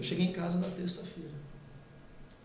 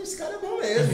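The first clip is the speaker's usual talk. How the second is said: a high, laughing exclamation; 13 semitones higher, 5 dB louder than usual. Retold or imitated. Admitting the preacher is good, laughing high. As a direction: blurt it out through a laugh. His own impressed remark retold.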